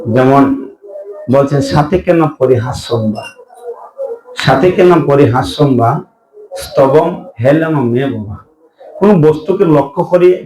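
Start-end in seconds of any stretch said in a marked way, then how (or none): 1.6-8.4 verse recitation. Acted.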